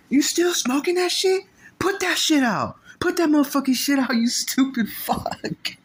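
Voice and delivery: loud, high, slowed-down yelling; furious order. Retold or imitated. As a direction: drag out every word, fed up. OG fed up, ordering it out.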